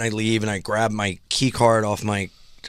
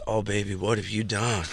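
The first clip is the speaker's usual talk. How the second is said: worried clerk; 3 semitones lower, 6 dB quieter than usual. Retold or imitated. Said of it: "She goes".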